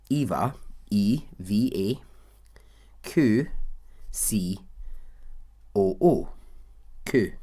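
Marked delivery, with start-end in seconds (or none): 0.1-6.3 Eva, E V A, Q, C O O read slowly, letter by letter; spelling out the name. Shown as a demonstration. Telling listeners how the heroine's name is spelled: slow letter-by-letter spelling. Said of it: "her name is spelled".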